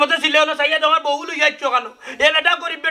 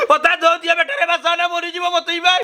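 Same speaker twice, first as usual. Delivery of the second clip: mildly tearful plea, slightly raised; tearful pleading; 2 semitones higher than usual. Acted. Injured man begging to be saved, tearful pleading. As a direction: plead as if close to crying.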